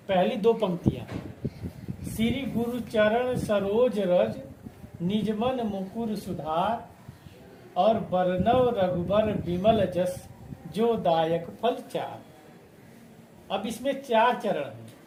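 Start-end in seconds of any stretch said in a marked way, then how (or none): 2.0-12.2 measured, chanted reading of verse lines; slow doha recitation. Shown as a demonstration. Teacher reciting Hanuman Chalisa doha to students, slow and measured. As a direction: recite the couplet slowly, line by line.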